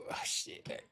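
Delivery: breathy whispered curse under the breath; whispered oh shit. Real, not acted. Coder whispering a curse at his broken game. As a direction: whisper it to yourself, caught off guard.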